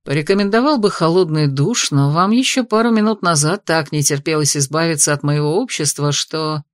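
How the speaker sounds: low, amused male voice; a lightly voiced smug dragon; mocking dragon.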